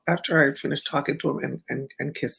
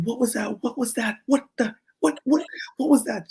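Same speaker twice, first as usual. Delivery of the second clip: higher, puzzled repeated question; puzzled designer; 8 semitones higher than usual. Retold or imitated. Designer questioning the model backstage, higher, puzzled. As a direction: ask it over and over, baffled. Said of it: "like, saying".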